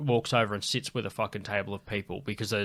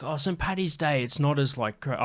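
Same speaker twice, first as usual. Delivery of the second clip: half-hearted attempt at an Irish accent; failed Irish accent; 4 semitones higher than usual. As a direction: start an Irish accent and lose it. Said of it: "I can't do an Irish accent".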